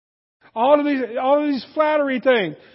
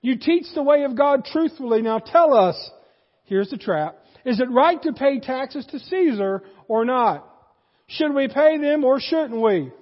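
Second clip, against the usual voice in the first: mock flattery. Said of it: "All of this fake praise".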